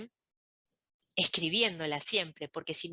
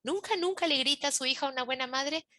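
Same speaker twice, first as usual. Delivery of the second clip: Nunca, nunca stressed and higher, rising question; emphatic doubt; 6 semitones higher than usual. Shown as a demonstration. Coach challenging the rule nunca le grita, emphatic doubting question. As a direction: lean on the repeated Nunca, nunca in disbelief. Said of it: "Me lo tengo que preguntar".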